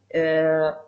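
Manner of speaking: usual speaking voice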